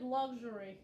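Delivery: "luxury" in an attempted Russian accent, first vowel opened to "log". Shown as a demonstration. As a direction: try "luxury" as a Russian would. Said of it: "in the Russian accent".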